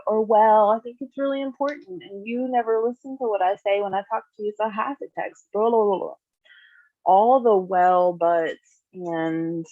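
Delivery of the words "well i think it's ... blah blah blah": whiny defensive excuse. Retold or imitated. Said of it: "they're inevitably gonna say".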